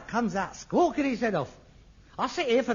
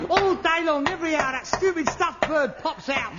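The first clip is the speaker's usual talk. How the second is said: normal talking voice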